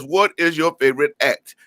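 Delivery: slow, stressed "What is your favorite act?"; deliberate question of the day; drawn-out question. Shown as a demonstration. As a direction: lean on "What" and stretch the line. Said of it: "And I'm saying it like that".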